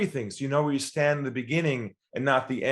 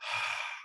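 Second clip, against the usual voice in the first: sigh of relief; 12 dB quieter than usual. Retold or imitated. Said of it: "He goes".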